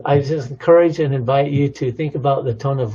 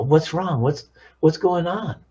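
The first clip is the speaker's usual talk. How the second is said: higher-pitched, worried check-in; concerned questioning; 4 semitones higher than usual. Acted. Caller hearing tension in someone's answer, concerned. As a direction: ask what's wrong, pitch raised in concern. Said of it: "we hear in the tone of their voice that it's not relaxed".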